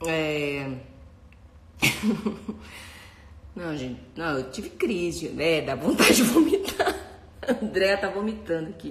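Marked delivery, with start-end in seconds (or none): 5.6-8.9 laughing. Real, not acted. Laughing while reading comments.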